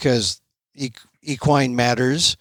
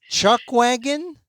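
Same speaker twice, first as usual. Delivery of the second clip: surprised question; 12 semitones higher, slower than usual. Real, not acted. Host questions unfamiliar term.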